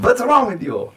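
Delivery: high, loud mock scolding; imitated angry yell. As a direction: imitate a hot-tempered director yelling. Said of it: "he likes to yell".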